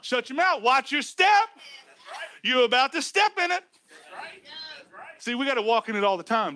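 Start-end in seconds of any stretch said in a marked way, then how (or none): 0.0-3.6 warning Holy Spirit. Retold or imitated. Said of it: "The Holy Spirit's gonna be there saying".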